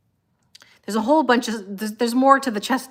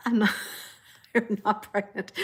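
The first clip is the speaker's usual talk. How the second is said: laughing as the words come out; laughing denial. Real, not acted. Streamer denying pregnancy rumors to followers, laughing. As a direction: deny it through laughter.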